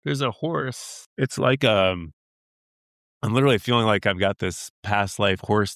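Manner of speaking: fighting back tears mid-sentence, laughing it off; overcome with emotion. Real, not acted. Guest overwhelmed by a vision on the podcast, emotional and teary. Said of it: "I'm, I'm getting emotional".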